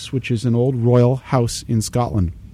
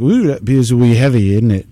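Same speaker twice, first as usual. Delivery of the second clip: mock Scottish accent; 3 dB louder than usual. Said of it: "kind of like a Cockney American accent trying to be Scottish".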